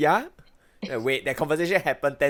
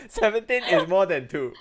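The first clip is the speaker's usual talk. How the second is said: mock profound quote; 4 semitones higher than usual. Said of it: "Memorial quotes from Yvette Khan".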